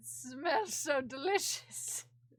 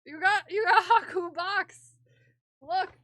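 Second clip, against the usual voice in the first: much louder, higher thrilled exclaim; excited; 4 semitones higher, 11 dB louder than usual. Real, not acted. Telling Haku his box arrived, loud excitement. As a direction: gush at the cat's present. Discovering gift for cat.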